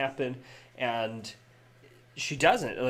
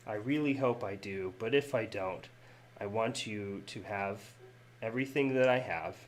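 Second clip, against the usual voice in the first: tender letter reading. Acted. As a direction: read it gently like a dying friend's goodbye. Reads Marshal's farewell letter.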